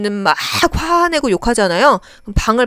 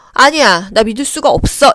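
denial; 4 dB louder than usual. Acted. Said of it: "이거는 부정이고요".

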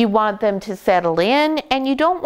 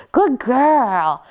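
puppy praise; 5 semitones higher than usual. Real, not acted. Praising puppy for stopping biting.

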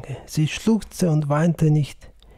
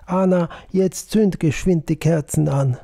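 urgent call to his wife, a bit raised; 4 semitones higher, 5 dB louder than usual. Acted. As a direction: call her to light the candles quickly. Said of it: "Plötzlich rief der Sepp".

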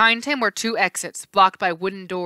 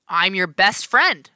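friendly; 5 dB louder, slower than usual. Acted. Right face friendly.

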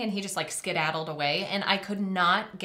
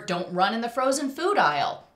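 stern mom; 3 semitones higher, 4 dB louder than usual. Retold or imitated.

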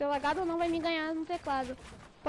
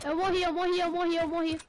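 louder, repeated in dismay; exclaiming; 4 dB louder than usual. Real, not acted. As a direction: blurt it out, just died. Just died in game.

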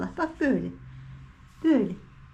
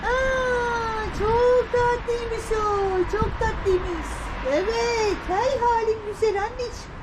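high, very slow drawn-out coo; 7 semitones higher, slower than usual. Real, not acted. Owner gushing slowly over her cute cat. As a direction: stretch it out sweetly up high.

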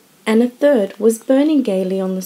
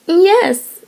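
sobbing despairingly; 9 semitones higher, 4 dB louder than usual. A narrator's reading. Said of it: "sobbed Meg despairingly".

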